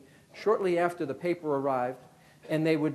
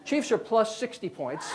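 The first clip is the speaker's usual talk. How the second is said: drawn out with a laugh; slow laughing mock line; 4 semitones higher, slower than usual. Shown as a demonstration. Slow, laughing joke line to the crowd. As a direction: spell out the joke slowly through a chuckle. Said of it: "Wait a minute, this is nineteen eighty-eight".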